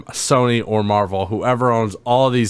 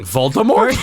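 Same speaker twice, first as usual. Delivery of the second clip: joking shout. Acted. Friend shouting a joke name at the story. Friend jokes about Potter.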